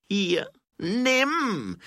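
high, loud, stretched cry; exasperated shout. A narrator's reading. Baroness handing the stone over, exasperated shout. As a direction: shout it as you give in, furious. Seraphine angrily gives up the stone.

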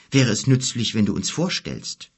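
mildly tentative request; hesitant. Acted. Boy asking the giant for introductions, hesitant. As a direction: suggest it carefully, without pushing. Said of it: "sagte Kim zögernd zu Gork".

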